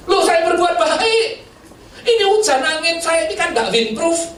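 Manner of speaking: proud of a small kindness; mock self-righteous. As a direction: whine about your good deed. Preacher mocking own pride.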